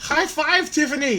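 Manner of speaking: high, loud, hammed-up cheer; screamed celebration. Host celebrates the raffle winner, hammed-up scream. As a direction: shriek it out like a banshee.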